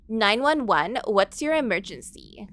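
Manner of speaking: lightly voiced Valley Girl 911 operator; a hint of a bubbly Valley Girl dispatcher. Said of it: "the Valley Girl nine one one operator".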